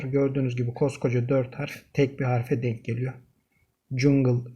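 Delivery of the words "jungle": Jungle said as "yoong-leh" with a Y sound; 1 German pronunciation. Shown as a demonstration. Teacher modelling Jungle for students, German Y sound. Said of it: "şeklinde telaffuz edeceğiz".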